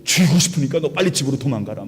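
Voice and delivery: mildly forceful mock threat; acted anger. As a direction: play an angry king warning someone off. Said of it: "그런 상황에 지금 열받아서".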